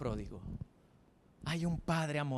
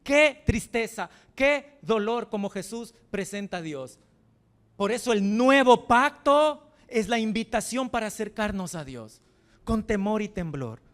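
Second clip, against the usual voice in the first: preaching lament; 5 semitones higher, 9 dB louder than usual. Acted. Pastor lamenting the sons who didn't love the father, grieving preaching. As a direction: mourn it from the pulpit.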